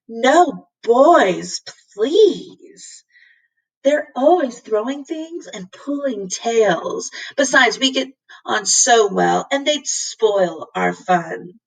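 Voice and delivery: a hint of a begging cat; cat coaxing Lindy, mild plea; pleading cat. Cat pleads against brothers.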